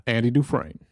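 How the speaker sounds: line said as Andy Dufresne in the Shawshank style; a light Shawshank movie impression. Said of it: "a little Shawshank Redemption".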